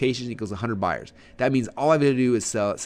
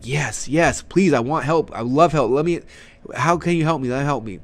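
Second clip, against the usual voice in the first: hammed-up begging, pitched up; eager pleading; 3 semitones higher, 4 dB louder than usual. Webinar audience answering in the chat box, mock eager pleading. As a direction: mock-desperate eager audience, pushed louder.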